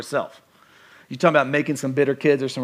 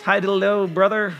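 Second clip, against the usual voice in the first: church mask; 4 semitones higher than usual. Acted. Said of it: "I got my church mask".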